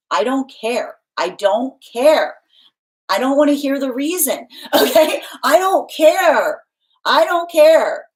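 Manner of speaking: high, loud, slow scolding mom voice; mother telling squabbling kids I don't care who started it; stern cosmic mother. Pretend. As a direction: scold like a mother who won't hear excuses. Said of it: "I'm gonna be your cosmic mother".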